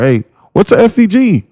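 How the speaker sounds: high clueless newbie voice; mock newbie question. Streamer imitating Discord members, high clueless newbie voice. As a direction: ask it like a lost beginner.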